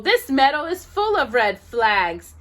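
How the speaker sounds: little engine sulking to himself; frustrated whining. Acted. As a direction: whine about never getting to play. Tootle complains about red flags.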